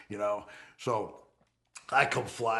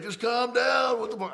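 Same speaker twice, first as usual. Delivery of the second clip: high, loud plea to calm down; alarmed shout; 12 semitones higher, 5 dB louder than usual. Retold or imitated. His followers in the gallery shouting at him to calm down, loud. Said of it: "They're like".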